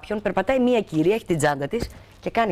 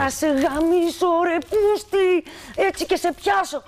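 angry threat; 11 semitones higher, slower than usual. Retold or imitated. She threatens the bag snatcher, slow high curse. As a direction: drag out the curse at the thief. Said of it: "Τι του είπες".

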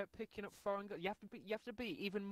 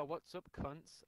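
casual greeting; 3 semitones lower, 5 dB quieter, much slower than usual. Retold or imitated. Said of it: "reunite with your whole family and go".

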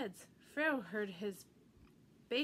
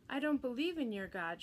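mild shout; 2 semitones higher than usual. Acted. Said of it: "shouted Pharaoh".

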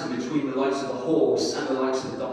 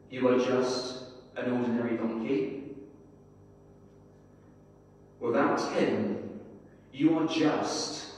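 unhurried storytelling read with gentle pauses; story narration. Acted. Preacher reading a story to his congregation, measured storytelling. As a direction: read the tale to the church like a parable.

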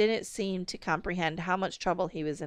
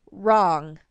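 a sharp louder cross "Wrong"; 8 dB louder than usual. A narrator's reading. Mother correcting father, cross and louder. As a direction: snap it out, annoyed. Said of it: "Mom said crossly".

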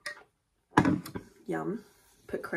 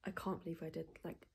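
whispering; 8 dB quieter than usual. Real, not acted. Whispering morning vlog.

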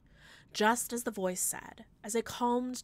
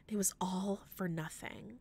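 whisper; 6 dB quieter than usual. Acted. Narrator despairs, voice drops.

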